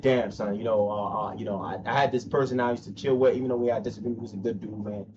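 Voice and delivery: a hint of sheepish regret; mock confession. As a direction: voice the rival admitting fault. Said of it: "openly confess and admit".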